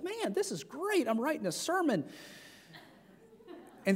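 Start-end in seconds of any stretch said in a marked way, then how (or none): 0.0-2.0 sarcastic aside. Retold or imitated. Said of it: "I was like".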